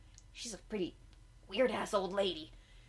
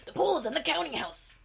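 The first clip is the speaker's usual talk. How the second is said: a hint of a grand butterfly; 8 semitones higher, 4 dB louder than usual. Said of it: "he's just like".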